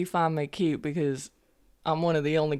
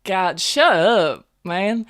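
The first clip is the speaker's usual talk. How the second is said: exasperated; 5 dB louder, much slower than usual. Acted. Indignant retort to teasing companion.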